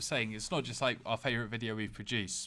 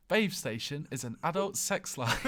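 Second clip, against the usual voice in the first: lightly posh reading aloud; hint of a posh English voice; 3 semitones higher than usual. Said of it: "the most posh voice".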